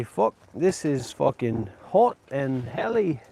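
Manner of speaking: slow mock-Aussie whinge; hammed-up Australian complaining; demonstrated complaint. Shown as a demonstration. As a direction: show how to grumble, drawn out. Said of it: "I'm gonna show you how to complain".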